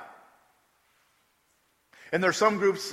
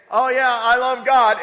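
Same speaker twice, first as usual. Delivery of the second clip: loud, high, drawn-out mock enthusiasm; mock-devout profession; 6 semitones higher, 9 dB louder than usual. Preacher mimicking a Christian with no transforming power, mock-devout. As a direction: put on a big, slow show of loving God.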